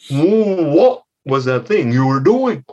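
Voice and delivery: slow, suspicious parental questioning; questioning mother frog. Acted. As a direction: lightly play a mother demanding an explanation. Mother frog questions her child.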